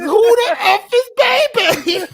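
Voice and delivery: mock outraged shout. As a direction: drag it out in disbelief. Acted Robin Harris bit.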